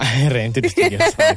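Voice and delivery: breathless after running; panting between words; out of breath. Real, not acted. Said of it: "why are you so out of breath".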